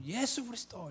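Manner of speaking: high, held-back crowd cry; imitated crowd shout. Youths answering whose name never tires, high imitated shout. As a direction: mimic the rally shouting back. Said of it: "이렇게 외칩니다".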